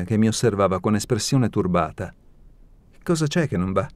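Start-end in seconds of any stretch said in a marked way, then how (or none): 3.0-3.9 higher, uneasy question; sudden embarrassment. A narrator's reading. Alina to Genia, suddenly embarrassed. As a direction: ask awkwardly, voice lifting. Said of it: "con imbarazzo improvviso".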